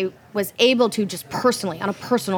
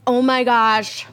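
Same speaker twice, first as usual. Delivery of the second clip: excited; 2 semitones higher than usual. Retold or imitated. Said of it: "I was so excited".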